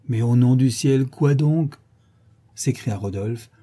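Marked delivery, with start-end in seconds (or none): 0.1-1.8 raised, exasperated demand; impatient outcry. Acted. Rodolphe to the portress over her odd reticence, impatient. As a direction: press her with mounting impatience. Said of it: "impatienté des réticences bizarres".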